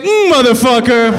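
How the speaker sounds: dog grumbling a curse; voicing the dog. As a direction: give voice to a disgusted dog. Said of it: "He's like".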